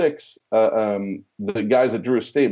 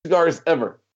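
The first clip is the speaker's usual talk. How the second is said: put-on eager young rep; 3 semitones higher than usual. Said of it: "And I'm like".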